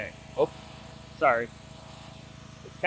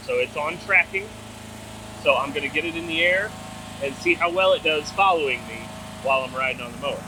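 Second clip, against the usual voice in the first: raised voice over an engine; speaking over mower noise; 3 dB louder than usual. Real, not acted. Talking over a running mower.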